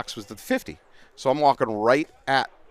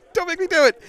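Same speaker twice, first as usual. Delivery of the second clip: much higher-pitched, louder mock yell; retold scream; 4 dB louder than usual. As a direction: yell it high and hard, like a standoff warning. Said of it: "I started screaming".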